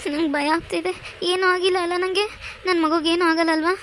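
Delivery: frightened. Acted.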